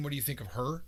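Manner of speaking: ordinary delivery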